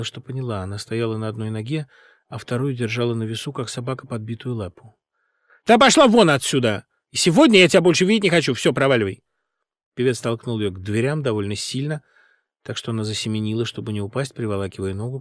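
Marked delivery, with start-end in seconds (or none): 5.7-9.2 louder, fast angry shouting; angry dismissal. A narrator's reading. Singer throwing the director out, angry. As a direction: shout her out and be done.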